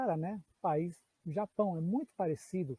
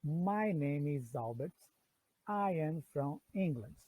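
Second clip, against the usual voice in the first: slow, clear English read for learners; slow model sentence; 2 semitones lower, slower than usual. Shown as a demonstration. Teacher reads the example to students slowly. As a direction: read each word apart, slowly. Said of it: "Vou repetir".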